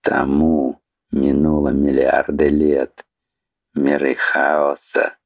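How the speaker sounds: put-on low, tired old voice; lightly voiced weary old serpent. Serpent's voice again.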